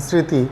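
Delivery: স্মৃতি said as "sriti" with no m sound; স্মৃতি pronounced sriti, m silent; m-phala silent. Shown as a demonstration. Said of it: "আমরা কিন্তু মফলার উচ্চারণই করলাম না".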